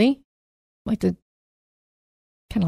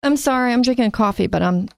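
ordinary talk

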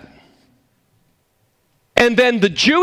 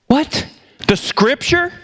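mock surprise; 7 semitones higher, slower than usual. Rhetorical surprise.

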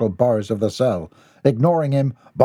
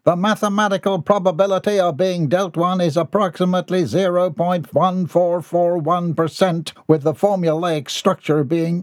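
pompous lecture; 7 semitones higher than usual. Acted. Mortimer lecturing the card players.

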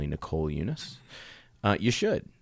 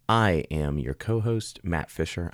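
slow, smooth radio host voice; 3 semitones lower, slower than usual. Real, not acted. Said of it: "I got my radio voice on".

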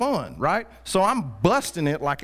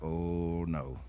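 mild dread; 12 semitones lower, 10 dB quieter than usual. Retold or imitated. Dread before hitting kid.

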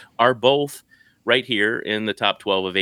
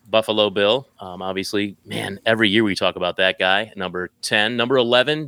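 top ten countdown. Acted. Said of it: "you used your announcer voice to tell us what the twelve".

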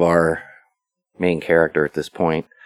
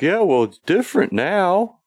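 much higher, sheepish defensive squeak; defensive whine; 13 semitones higher than usual. Retold or imitated. Michael defending himself to the old man, high defensive squeak. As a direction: squirm out of it in a high voice.

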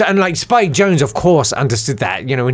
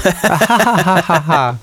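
higher, bigger cartoon ha ha; cartoon laugh; 4 semitones higher than usual. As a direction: push the cartoon laugh harder. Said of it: "Cartoon laugh".

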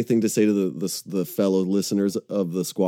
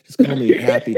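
retelling it through a laugh, a bit louder; laughing quote; 5 dB louder than usual. Retold or imitated. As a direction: chuckle while quoting the guy. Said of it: "And he was like".

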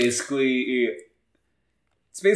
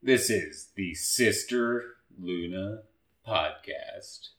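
slow, understated intense podcast intro; 4 dB quieter, slower than usual. Acted. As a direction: intone the title slowly, dropping off at the end. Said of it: "It sounds really intense when you say it in that voice".

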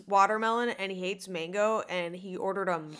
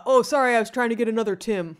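quick, slightly louder mock apology from a stranger; mock tweeter; 4 dB louder, faster than usual. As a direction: brush him off like a stranger who got the wrong Tim. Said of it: "Here's my impression of people tweeting at you".

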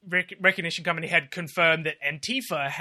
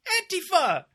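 high-pitched mock cry of alarm; accusing crowd; 13 semitones higher than usual. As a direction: call it out like pointing someone out. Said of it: "pointing at somebody doing violence and being like".

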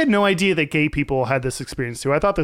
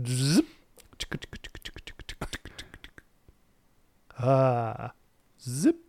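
zipper sound; 4 semitones lower, 8 dB quieter, much slower than usual. Pretend. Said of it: "You sound like a wind-up toy".

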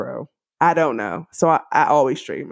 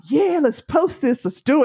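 imitated eagerness; 8 semitones higher than usual. Co-host motivating her to post, imitated eagerness. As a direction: imitate a co-host cheering you on.

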